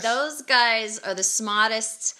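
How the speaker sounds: Lowell, Massachusetts accent, "smartest" without its r; emphatic Lowell accent, r dropped. Real, not acted. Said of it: "You're from Lowell, Massachusetts".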